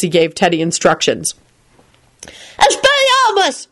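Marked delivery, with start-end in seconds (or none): 2.6-3.7 high, slow drawn-out spell cry; boy casting his first spell; shouted spell. A narrator's reading. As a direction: cast it with a big shout. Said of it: "shouted Teddy".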